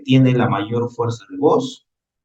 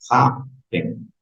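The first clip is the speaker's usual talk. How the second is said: "Happen" with the weight on HAP; stress on first syllable. Shown as a demonstration. Teacher showing students where the voice falls, first-syllable stress on "Happen". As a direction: lean on the first syllable of "Happen", let the second drop.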